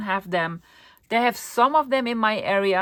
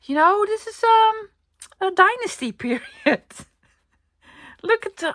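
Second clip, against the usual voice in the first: excited; 13 semitones higher, 4 dB louder than usual. Real, not acted. Delighted over old pattern.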